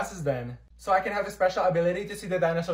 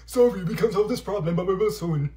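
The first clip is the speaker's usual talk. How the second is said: app voice; 2 semitones higher, 6 dB louder than usual. Retold or imitated. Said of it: "photomath wasn't working".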